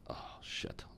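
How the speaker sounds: breathy unvoiced whisper, under the breath; whispered curse. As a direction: mutter it to yourself in alarm. Inner panic, recognized by old trader.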